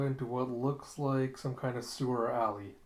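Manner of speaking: usual speaking voice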